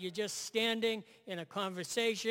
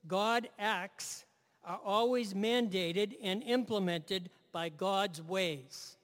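slow emphatic statement; slower than usual. Shown as a demonstration. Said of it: "I'll say that again".

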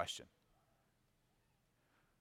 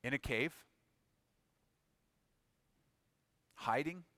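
quiet disbelief; 6 dB quieter than usual. Acted. God quietly questioning Elijah in disbelief.

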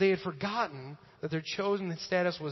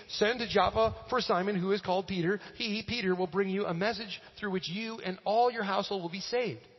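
higher-pitched, emphatic reading aloud; Scripture reading; 4 semitones higher than usual. Real, not acted. Pastor reading Peter's account of Cornelius, emphatic reading. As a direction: read it to the room, building on the last question.

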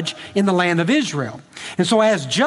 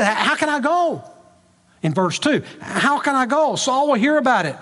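voicing a worried old prophet, higher; mock fretting, pitched up; worried Samuel; 5 semitones higher than usual. Samuel frets to God about Saul, worried and higher. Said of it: "So, so he's a little worried".

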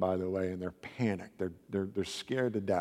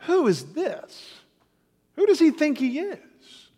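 much higher, louder outraged disbelief; religious authorities inwardly outraged at Jesus, indignant scoff; 6 dB louder than usual. Acted. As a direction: scoff like an offended scribe. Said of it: "they're thinking to themselves".

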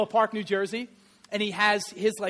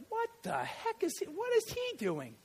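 high, incredulous what-the-heck; imitating stunned fans watching an unpadded quarterback; baffled onlookers; 9 semitones higher, 9 dB quieter than usual. Scene: preacher voicing stunned football fans, high and incredulous.

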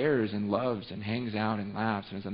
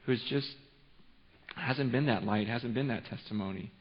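ordinary delivery

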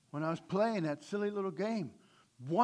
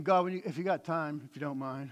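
casual ask; 4 semitones lower, faster than usual. Retold or imitated. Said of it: "it doesn't mean".

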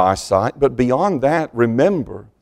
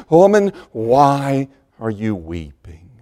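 slow and lower, a gentle ask; loving comfort; 3 semitones lower, 3 dB quieter than usual. Acted. Jesus speaks to Mary whom he loves, slow and gentle. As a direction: say it softly to someone dearly loved. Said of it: "personal words of comfort for someone that he loved so dearly".

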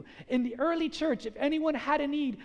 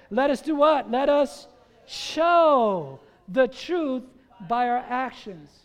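drawn-out, louder "show the truth"; preaching call, louder; 6 dB louder, slower than usual. Real, not acted. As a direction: pastor preaching to the congregation, loud and slow. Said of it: "congregation call-and-response".

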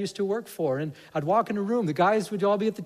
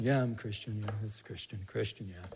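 bored lukewarm Christian; 7 semitones lower, 8 dB quieter than usual. Retold or imitated.

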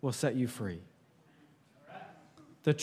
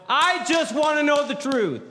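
raised, higher mock yell of the movie line; Tom Cruise yelling; 8 semitones higher, 4 dB louder than usual. Preacher quoting Tom Cruise, higher mock yell. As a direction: push it up like a courtroom demand. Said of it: "Tom Cruise yells".

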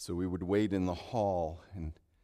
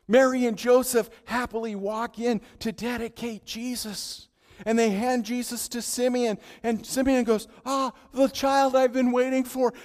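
loud, high, fervent preaching; preaching at full force; 11 semitones higher, 10 dB louder than usual. Acted. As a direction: drive it home to the crowd.

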